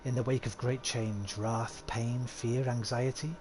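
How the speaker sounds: measured, dramatic storyteller; slowing on the ominous phrases; legend telling. Acted. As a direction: recount an old legend, drawing out the lists.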